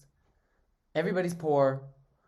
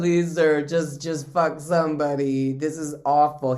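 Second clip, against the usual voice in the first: louder, exasperated begging in jest; mock pleading; 5 dB louder than usual. Eunuch begging the emperor to choose someone, mock pleading. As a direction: beg as the fed-up servant, hammed-up.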